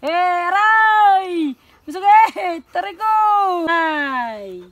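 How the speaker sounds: high loud ouch; yelp of pain. Real, not acted. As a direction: cry out as if bitten. Bitten, cries out in pain. (sigaw sa sakit)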